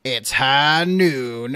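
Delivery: slow, drawled cowboy line; a lightly voiced gunslinger; McCree voice. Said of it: "what's the Overwatch, uh, character".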